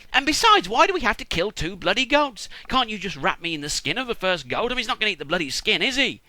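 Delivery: acted high-pitched griping; mock-aggrieved protest, starting loud and high; indignant objection. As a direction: argue back in comic exasperation. Acted son argues against the plan.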